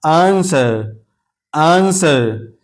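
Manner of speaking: आंसर drawn out slowly as "aan-ser"; silent W. Shown as a demonstration. Teacher models answer for learners, slow आंसर with silent W. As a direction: stretch आंसर with no W sound. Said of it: "इसको तलफ़ुज़ में नहीं लाएंगे".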